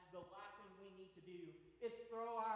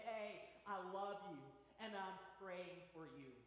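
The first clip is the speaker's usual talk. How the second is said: gentle comfort. Retold or imitated. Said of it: "put their arm around us and say".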